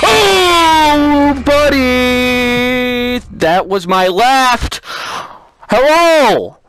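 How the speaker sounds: loud comic outrage at own mistake; exasperated shout. Real, not acted. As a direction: yell at yourself. Botched eye removal.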